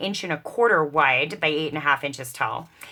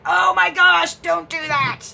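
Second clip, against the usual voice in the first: high-pitched imitation of an appalled sewer, British accent; mock horrified sewer; 11 semitones higher, 6 dB louder than usual. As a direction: squeal it like a shocked seamstress. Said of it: "sewers are gonna be like".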